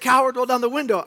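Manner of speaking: high, loud imitated taunt; mock taunt. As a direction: taunt him as a coward. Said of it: "She said".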